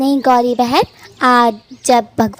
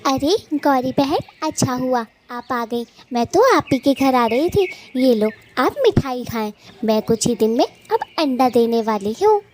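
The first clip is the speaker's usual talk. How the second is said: softer chirpy bird-woman voice, a touch quieter; little bird voice; 5 dB quieter than usual. Acted. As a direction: speak as a small happy sparrow, softly. Bird character greets Gauri. (धीमी, प्यारी चिड़िया की आवाज़)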